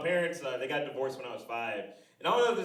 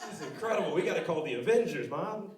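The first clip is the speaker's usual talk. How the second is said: put-on kid amazement; 7 semitones higher, 5 dB louder than usual. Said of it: "I was like".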